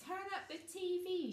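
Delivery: high, loud bossy demand; bossy shout. Acted. Gareth ordering his little brother about, loud bossy shout. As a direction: bark the order like a spoiled big brother. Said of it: "shouted Gareth".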